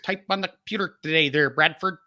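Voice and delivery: lightly mimicked keyboard teacher; Miss Arkins. Keyboard teacher addressing her student in class, lightly imitated. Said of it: "He also sounds like Miss Arkins".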